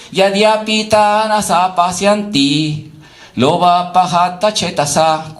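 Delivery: measured chanted Sanskrit verse; sloka recitation. Acted. Teacher reciting a Gita verse to the class, intoned. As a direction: intone each line of the verse evenly.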